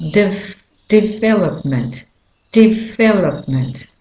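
development with the beat on VEL; stress on VEL. Shown as a demonstration. Teacher demonstrating main stress, VEL stressed in development. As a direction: repeat development, weighting the second syllable. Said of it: "the main stressed syllable is the vowel syllable".

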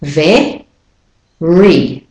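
"Ve, re" split in two, each vowel full and clear; syllables sounded separately. Shown as a demonstration. Teacher breaking very into syllables for learners, clearly sounded. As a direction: say "Ve", pause, then "re", both stressed. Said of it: "You hear the e clearly".

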